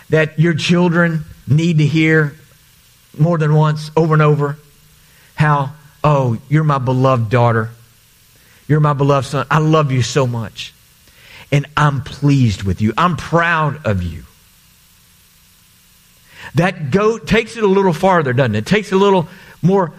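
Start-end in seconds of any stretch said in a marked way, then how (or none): 6.0-14.2 lightly voiced loving parent, gentle and low; tender parent. Parent blessing their child, speaking tenderly and low.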